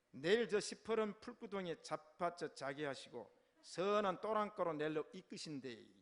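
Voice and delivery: emphatic Gyeongsang-do recitation; thick southeastern Korean Gyeongsang accent; Gyeongsang dialect. Shown as a demonstration. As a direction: recite it in a broad Gyeongsang dialect, punching key words. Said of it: "제가 한번 경상도 버전을 외워보죠".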